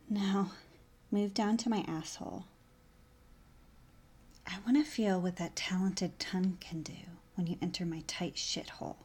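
breathy, unvoiced sultry whisper; seductive whisper. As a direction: whisper it close to his ear.

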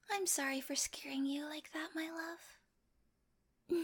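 soft, hushed apology to a lover; tender apology. Acted. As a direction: apologise softly, soothingly. Apologising to frightened partner.

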